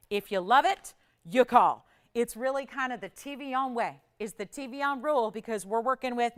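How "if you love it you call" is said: urgent push. Acted. Sales host urging the call.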